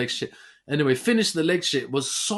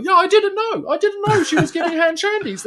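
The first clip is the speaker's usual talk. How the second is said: high, loud faux-innocent voice; mock innocent excuse; 14 semitones higher, 5 dB louder than usual. Excusing himself to his wife, high and faux-innocent. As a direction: play dumb for the wife.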